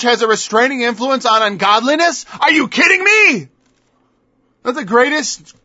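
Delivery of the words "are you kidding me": pitched way up, louder, in disbelief; loud incredulous scoff. Real, not acted. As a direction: scoff as if it's absurd. Preacher mocks a claim.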